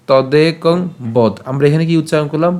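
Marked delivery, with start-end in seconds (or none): 1.1-1.3 "বদ" ending on a bare d; pronunciation model. Shown as a demonstration. Teacher showing the line, "বদ" with closed d. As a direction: close "বদ" on the d, no final o. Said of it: "এখানে বদ উচ্চারিত করলে".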